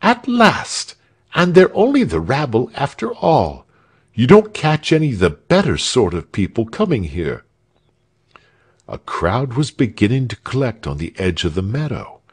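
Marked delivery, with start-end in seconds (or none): 0.0-7.4 high, indignant thin soldier voice; a pompous guard outraged at his duty; thin soldier Leuthold. A narrator's reading. Leuthold complaining to Frieshardt about the disgrace, high and indignant. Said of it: "said Leuthold".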